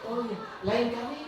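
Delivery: friendly teacher. Acted. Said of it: "Seakan kita kan berteman".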